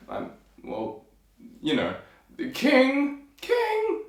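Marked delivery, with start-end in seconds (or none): 2.5-3.2 high-pitched soldier calling the king; one of many soldiers. Acted. Soldiers appealing to their king, high voice among many. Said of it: "There's a lot of them". 3.4-4.0 very high, squeaky little soldier; one of many soldiers. Acted. Soldiers appealing to their king, very high squeaky voice. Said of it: "There's a lot of them".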